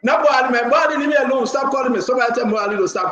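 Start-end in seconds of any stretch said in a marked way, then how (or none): 0.0-1.2 excited call-out. Real, not acted. Host calls out excitedly on air.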